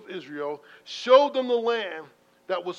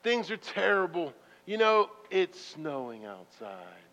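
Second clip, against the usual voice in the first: mock gloom; 2 semitones lower, slower than usual. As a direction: sink into a defeated mutter. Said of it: "Are we saying".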